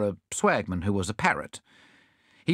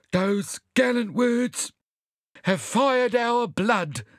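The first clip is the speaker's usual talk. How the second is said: much higher, slow stirred voice; fired-up sailor; 12 semitones higher, 3 dB louder, much slower than usual. Acted. Sam answering Bunyip's rousing words. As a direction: sound fired up by the speech.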